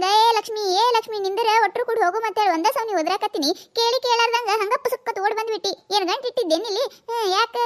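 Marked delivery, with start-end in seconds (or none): 0.0-2.2 mock yell. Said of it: "ನಿನಗ ನಾಯಿ ಒದರ್ದಂಗ".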